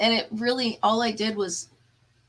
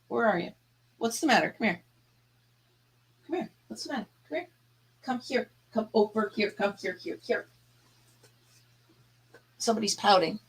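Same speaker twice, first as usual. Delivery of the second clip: soft coaxing pet talk; 4 dB quieter, faster than usual. Real, not acted. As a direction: coax the dog gently over.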